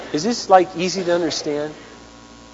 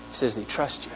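soft emphasis; 4 semitones lower, 10 dB quieter than usual. Shown as a demonstration. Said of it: "repeated for emphasis".

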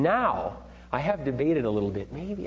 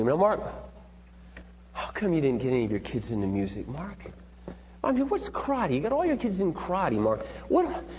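imitating his mother; 3 dB quieter than usual. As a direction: needle him like a nagging mom, mildly. Quoting his mother's challenge.

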